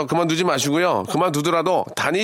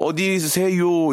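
mock Seoul accent, higher and drawn out; put-on Seoul speech; 5 semitones higher, much slower than usual. Shown as a demonstration. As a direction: stretch "어디세요" slowly in affected standard Seoul Korean. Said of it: "이렇게 하지 마시고". (일부러 길게 빼는 서울말 흉내)

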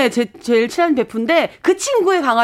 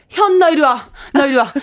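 mock scolding. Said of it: "혼내주죠".

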